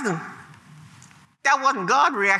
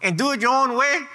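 God rebuking; 5 semitones higher than usual. Acted. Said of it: "God look at that, at unbelief".

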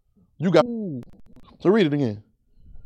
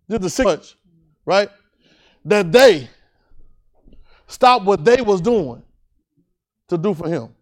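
raised, deliberate preacher's delivery; emphatic preaching; 4 semitones higher, 5 dB louder than usual. Real, not acted. Preacher stressing to a congregation what the friends did, emphatic preaching. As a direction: drive each phrase home with long pauses.

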